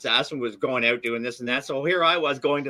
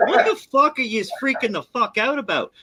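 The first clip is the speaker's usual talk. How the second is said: exasperated retort; 9 semitones higher than usual. Retold or imitated. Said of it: "I'm like".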